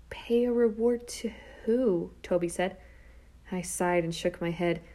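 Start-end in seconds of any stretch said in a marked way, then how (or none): 0.1-2.1 slow, hushed, puzzled question; puzzled whisper. A narrator's reading. Brother failing to follow his sister's scheme, whispering. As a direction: whisper it back, not getting it.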